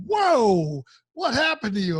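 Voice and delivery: high, loud startled whoa from the wife; wife's surprise. Retold or imitated. Wife startled as he gets off the phone, high and loud. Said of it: "She's like".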